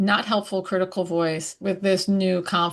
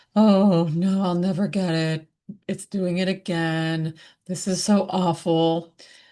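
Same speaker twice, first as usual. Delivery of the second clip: gloomy, glum, defeated, beaten-down moping voice. Showing how to give unhelpful thoughts a less empowered voice, Eeyore voice. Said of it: "an Eeyore voice where it's more".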